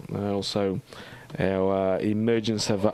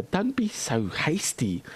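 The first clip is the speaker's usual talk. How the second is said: slow, higher-pitched playful character voice; Treebeard; 6 semitones higher than usual. Pretend. Teasing a chat viewer as an unhurried tree creature, lightly voiced. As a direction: draw it out, lightly put on. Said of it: "I'm Treebeard".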